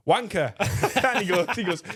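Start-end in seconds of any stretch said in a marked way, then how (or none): 0.1-0.5 raised, louder jeer from the crowd; mock heckle shout. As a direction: imitate a heckler calling out. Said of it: "then someone shouts".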